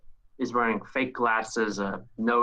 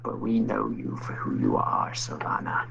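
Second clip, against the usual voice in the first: put-on sly, whispered old schemer; Palpatine-like whisper. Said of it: "he sounds a little like Emperor Palpatine".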